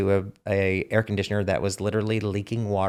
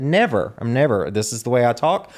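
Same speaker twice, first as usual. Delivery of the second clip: defiant; 2 semitones higher than usual. Retold or imitated. Hairdresser retells answering teasing about his accent, mildly defiant. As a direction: lightly act out standing your ground.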